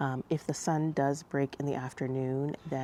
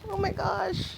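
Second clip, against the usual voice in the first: high, astonished gasp of words; real amazement at the hail; in a hailstorm. Real, not acted. Reacting to the hail.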